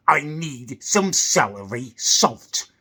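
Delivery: a lightly hammed-up posh pensioner demanding; posh old bloke. Posh old bloke in the Co-op queue demanding of the salesperson, slow and pompous. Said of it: "And this bloke just goes".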